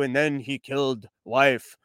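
lightly voiced, slow-paced chief telling a tale; plodding storyteller impression. Host mocking a film's pacing as a chief's slow, plodding recital. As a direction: draw each deed out in a measured, repetitive recital. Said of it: "pacing of an Indian chief describing to you".

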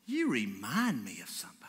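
whispered, leaning in close; hushed whisper. Retold or imitated. Driver confiding to the preacher in a whisper. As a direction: drop to a secretive whisper.

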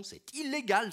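high, loud cry of protest; c'est illégal, nearly shouted; alarmed outburst. Acted. Claire objects angrily to imposture.

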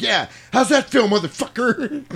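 gloating yell. Retold or imitated. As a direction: jeer at the burning villain. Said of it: "He's like".

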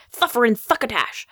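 interdental lisp, th for every s in "Thuffer and Thuckatash"; tongue between the teeth on each s in "Thuffer and Thuckatash"; Sylvester lisp. Retold or imitated. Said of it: "you probably all know about Sylvester's lisp".

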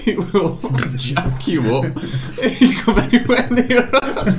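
high, slow laughing repeat. Real, not acted. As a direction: repeat it while cracking up.

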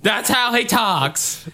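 high, drawn-out fake Swedish accent; slow mock Swedish slipping into Southern; Southern-tinged Swedish. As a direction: defend it in a bad Swedish accent. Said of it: "It sounds Southern".

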